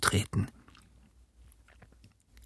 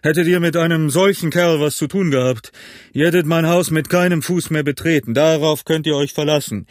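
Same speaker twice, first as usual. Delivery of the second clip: higher, indignant warning; stern threat; 5 semitones higher than usual. A narrator's reading. Innkeeper threatens Morgan with banishment, indignant. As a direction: lay down the law forcefully.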